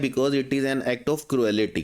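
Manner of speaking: very slow, each word separated; teacher reading a sentence slowly; slow dictation. Shown as a demonstration. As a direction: spell it out slowly for the class. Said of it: "क्योंकि वो क्या है?".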